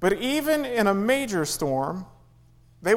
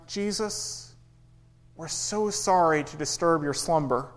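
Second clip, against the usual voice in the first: mock gentle politeness. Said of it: "They don't wake him up very gently".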